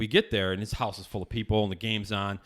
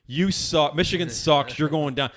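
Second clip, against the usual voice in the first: retold taunting; 4 semitones higher, 4 dB louder than usual. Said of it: "banging on the window, going".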